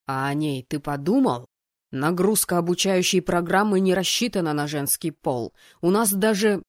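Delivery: forceful, mounting objection; indignant argument, rising in volume; protesting dean. Acted. Dean argues on, then cut off.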